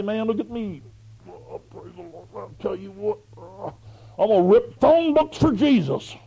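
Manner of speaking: hammed-up bodybuilder bragging; mock gym bro. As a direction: brag like a show-off weightlifter. Mocking a gym guy bragging.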